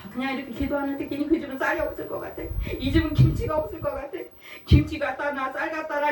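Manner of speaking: quick, lightly voiced old deaconess; hurried muttered thoughts of an old deaconess; voicing the deaconess. Deaconess voiced praying at dawn.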